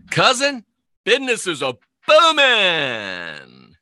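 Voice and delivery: high drawn-out "Cousin", then a slow hearty brag; like a country huckster boasting to kin; folksy huckster. Acted. Folksy put-on salesman brag.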